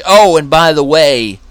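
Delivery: sly accuser. Acted. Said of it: "He came in with another message".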